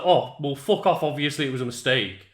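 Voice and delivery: mock-annoyed dismissal; irritated retort. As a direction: snap back defensively. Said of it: "and it's like".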